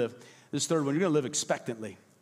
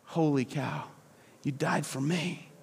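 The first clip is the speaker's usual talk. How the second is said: humble believer. Acted. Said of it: "Humility is saying".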